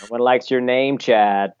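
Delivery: slow, teasing fake American; mock American accent. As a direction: needle him in a drawn-out American accent. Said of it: "best American accent saying".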